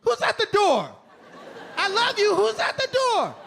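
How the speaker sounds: very high, loud yapping dog voice; frantic, high-pitched mock dog shouting; excitable talking dog. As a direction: shout it like an overexcited dog at the door. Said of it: "If my dog could talk".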